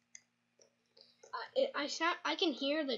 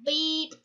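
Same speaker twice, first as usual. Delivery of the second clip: short loud high beep; censor beep; 5 semitones higher, 9 dB louder than usual. Pretend. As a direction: bleep it sharply. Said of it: "just going".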